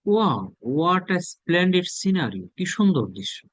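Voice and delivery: high, slow "Wow"; amazed at a view. Shown as a demonstration. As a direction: gasp at a beautiful scene. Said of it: "কোন একটা scenery আপনি দেখলেন". (মুগ্ধ হয়ে উচ্ছ্বাস)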